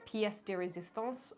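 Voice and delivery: attempted French accent, drawn out. Vlogger grandly naming the top tier, French accent. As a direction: slowly put on a French accent. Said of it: "say that in a French accent".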